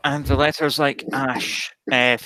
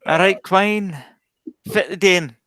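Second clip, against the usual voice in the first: Doric accent; 3 semitones higher than usual. Shown as a demonstration. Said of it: "Say some more stuff".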